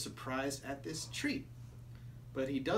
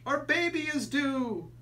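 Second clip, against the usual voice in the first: urgent; 10 semitones higher, 6 dB louder than usual. Acted. Frantic father in the story.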